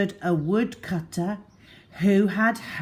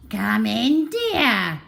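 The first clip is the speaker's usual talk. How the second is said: high, sugary voice with a snarl beneath; wolf feigning kindness; nicest snarl; 5 semitones higher, 5 dB louder, slower than usual. A narrator's reading. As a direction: fake sweetness, barely hiding the menace. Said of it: "snarled the wolf in his nicest voice".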